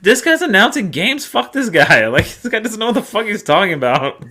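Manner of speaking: high-pitched incredulous rant; retold outrage. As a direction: complain like a fed-up fan, high and exasperated. Retelling his outraged reaction to announcer.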